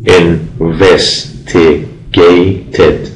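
investigated with a clear id ending. Shown as a demonstration. Teacher saying investigated with the id ending for students. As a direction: sound the final ed as id in investigated. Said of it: "این سه مثال بالا".

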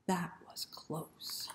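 slow, soft whisper of relief; relieved whisper. Acted. After the snake, a slow relieved whisper. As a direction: breathe it out relieved.

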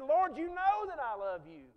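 a touch of irritated protest; aggravated. Retold or imitated. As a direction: Peter fed up at being asked again. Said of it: "he got all aggravated".

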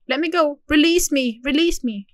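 hammed-up cry to be released; mock pleading. Horse stuck, pleading.

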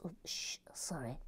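soft, low whispered apology; whispered, quick 'oops, secret'; hushed secrecy. Pretend. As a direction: hush yourself as if secrets slipped. Hushing over secret builds.

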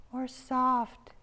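high-pitched interjection; quick interjection. A narrator's reading. Miss Bimble adds to Pouch's point, high interjection. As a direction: chime in high. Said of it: "Miss Bimble quickly interjected".

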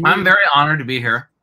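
chewing gum, words muffled; mouth full. Pretend. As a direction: say it through a wad of gum. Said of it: "I have to talk".

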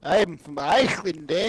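mock a friend's botched Irish accent; bad Irish accent. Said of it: "my impression of Luke doing an impression of an Irish accent".

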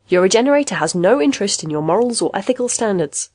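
lightly voiced reassuring sales instructor; emphatic, lilting product-manual read; instruction recording. Recorded manual guides a new patient, lightly voiced upbeat instructor.

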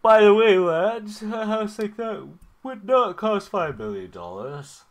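high, shouted interjection; sudden booming objection, drawn out at the end; loud outraged aside. Real, not acted. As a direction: yell over the advert in disbelief. Outburst over the game's advert.

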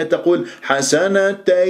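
حسنتي drawn out slowly in recitation; slow recited word. Shown as a demonstration. Teacher reciting حسنتي for students, drawn out. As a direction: stretch each sound of حسنتي. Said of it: "يضاع".

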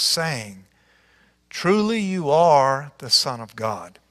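measured, expressive Bible reading aloud; scripture reading. Acted. Pastor reading the Galilee passage to church, expressive. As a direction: read the passage like a storyteller.

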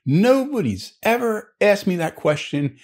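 put-on high, drawn-out old-timer punchline; old New England man. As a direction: pitch it way up as an old local man, easing down at the end. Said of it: "the guy behind the counter, the old New England guy".

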